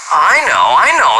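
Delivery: a hammed-up eager scream, mostly pitch; mock kid's scream. A narrator's reading. Johnny screaming to answer his teacher, lightly done. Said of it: "screamed little Johnny".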